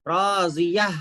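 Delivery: राजिया with an audible h at the end; final ha sound. Shown as a demonstration. Teacher showing the ha that comes at the stop, breathed ending. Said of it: "हा की आवाज आएगी आखिर में".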